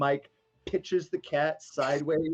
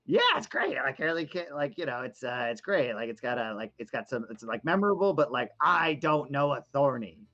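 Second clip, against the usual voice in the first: squeaky little creature. Acted. Small creature voice on shoulder.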